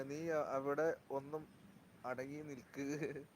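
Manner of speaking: slow aside. Real, not acted. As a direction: stretch each word, hushed, to someone beside you. Telling someone nearby to stay still.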